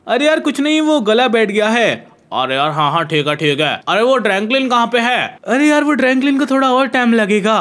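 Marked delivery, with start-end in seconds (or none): 0.1-1.9 impostor hastily covering with a faked voice; faking Franklin's voice. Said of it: "ये Franklin की आवाज और निकालनी पड़ेगी".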